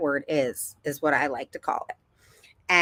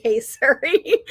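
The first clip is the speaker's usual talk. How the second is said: higher, louder, drawn-out summons; calling Siri; 7 semitones higher, 6 dB louder, slower than usual. Retold or imitated. Mom shows daughter how to ask the iPhone, calling out. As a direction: summon the voice assistant slowly and loudly. Demonstrates calling on phone assistant.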